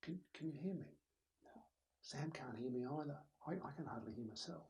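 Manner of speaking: nervous, barely audible speaker; very soft. Shown as a demonstration. Nervous presenter too soft for Sam to hear, very soft. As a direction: shrink the voice until it hardly carries. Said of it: "they tend to get very soft".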